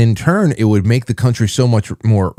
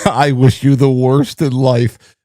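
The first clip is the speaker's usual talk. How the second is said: imitating the curse; 4 semitones higher, slower than usual. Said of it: "something like what I would say".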